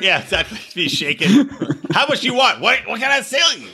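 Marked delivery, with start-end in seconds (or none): 1.9-3.7 higher, laughing hustler pitch; mock hustler. Imagined homeless guy pitches drugs, higher and laughing. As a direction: hustle them through a laugh. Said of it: "The homeless guy would actually say".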